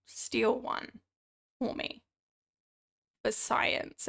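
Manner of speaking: hushed secret request; whispering. Acted. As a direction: whisper it like a conspiracy.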